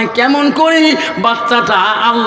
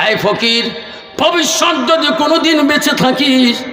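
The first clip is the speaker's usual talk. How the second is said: acted threat, pitched up on the warning; retold angry threat; 6 semitones higher than usual. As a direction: warn the beggar like a hot-tempered caliph. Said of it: "এমনে রাগী বেশি".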